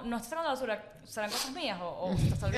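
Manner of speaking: tentative, gentle hint; nice, positive way. Shown as a demonstration. Showing the kind way to raise the trash, gentle. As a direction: suggest it gently, as a mere wondering. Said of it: "una manera bonita de hacerlo".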